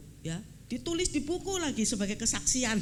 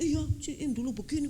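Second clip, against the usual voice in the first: lightly voiced brusque young man, higher; young pastor cutting in; 6 semitones higher than usual. Young pastor interrupting the older pastor, a lightly voiced brusque reply. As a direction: jump in before he finishes. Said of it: "dia sudah ngomong".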